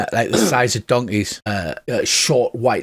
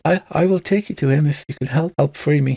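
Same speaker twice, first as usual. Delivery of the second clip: whimpering wolf; 4 semitones higher than usual. Acted. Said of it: "the whimpering one says".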